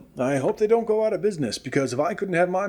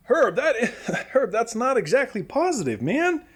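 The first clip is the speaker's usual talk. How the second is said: laughing; 6 semitones higher than usual. Acted. Host laughs at rival jab.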